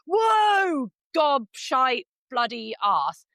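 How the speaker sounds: mock a rider losing it over a fence; hammed-up panicked shout; panicked rider yelling.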